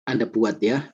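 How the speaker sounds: stuffy nose from a cold; talking through a head cold; sniffling. Real, not acted. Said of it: "ini saya pilek banget".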